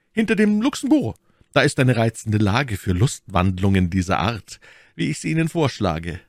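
lightly voiced, airy challenger; jaunty young gallant. D'Artagnan naming the place for the duel, jaunty. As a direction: propose it lightly, lifting the start.

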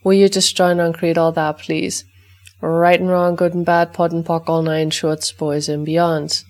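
brisk, rote recitation of a set formula, easing off toward the end; ritual clearing statement. Acted. Facilitator reciting the clearing for the listeners' dogs, rote chant. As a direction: rattle off the clearing chant as routine.

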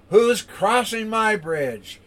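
high, loud, slow troll challenge; challenging troll. Acted. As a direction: stretch out a storybook monster's demand. Troll challenges middle goat.

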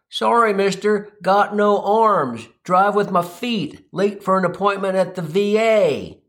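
imitating an earnest apology, drawn out; sincere, apologetic. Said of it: "in a very sincere and apologetic tone".

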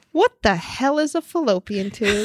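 slow quote of the son broken by real laughter; what the hell is a fallopian tube said slowly with laughter in it; laughing while quoting. Retold or imitated. Mom retelling her son's question about a fallopian tube, slow and laughing. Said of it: "But he says, "An fallopian tube".

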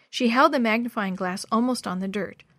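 usual speaking voice

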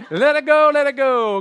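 comic praise for a narrow escape; relieved exclamation. Acted. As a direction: cry out as if you just escaped. Acting out someone abandoning the sheep.

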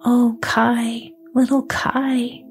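a longing sigh for Kai. Acted. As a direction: sigh his name, half-whispered and wistful. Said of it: "sighed Gerda".

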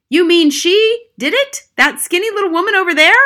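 high, loud, astonished question; incredulous shout. A narrator's reading. Father looking at the accused woman, incredulous shout. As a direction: shout in disbelief, pitch soaring. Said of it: "shouted Mister Jenkins".

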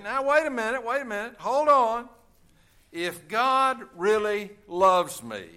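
rising, protesting voice of a doubter; imagined objector. Retold or imitated. Preacher voicing a doubter who protests God's limits. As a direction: play the indignant skeptic, wait a minute.

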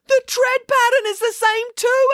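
high, loud accusation; accusing. Acted. Kiran accusing April about the shoe tread. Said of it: "accused Kiran".

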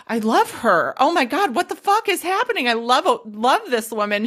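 breathless, gushing with a pitch jump; giddy infatuation. Retold or imitated. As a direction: swoon over her, half mock. Giddy retold crush on sponsor.

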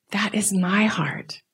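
slow, near-whispered certainty; hushed conviction. Retold or imitated. Woman repeating what she realized is hers, hushed. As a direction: let the realization sink in, almost whispering.

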